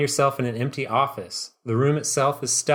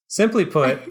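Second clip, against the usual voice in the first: high, loud, laughing villain line; hammed-up villain; 5 semitones higher, 4 dB louder than usual. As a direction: overplay the boss with a laugh. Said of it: "trying to get him, like, hey, so hard".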